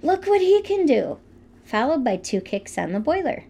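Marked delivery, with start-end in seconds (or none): 0.0-1.2 high imitated exclamation; ghostly male voice. Host retelling an investigator's recording of a spirit, imitated exclamation. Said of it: "a strong male voice saying".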